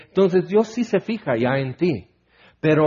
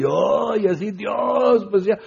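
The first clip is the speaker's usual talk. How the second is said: mock pious wail; 4 semitones higher, slower than usual. Mock pious wailing sing-song.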